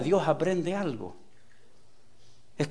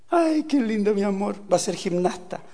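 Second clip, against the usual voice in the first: lightly voiced gushing mom, higher; doting mother; 4 semitones higher than usual. Preacher imitating a mother admiring her jumping son, mock doting. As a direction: coo as if proud of a naughty child.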